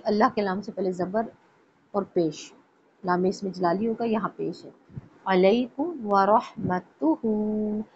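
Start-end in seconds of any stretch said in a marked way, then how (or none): 5.3-7.8 अलैकुम व रहमतुहु slow and exact; tajweed reading. Shown as a demonstration. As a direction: recite अलैकुम व रहमतुहु slowly. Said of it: "अब व रहमतुहु के अंदर देखें".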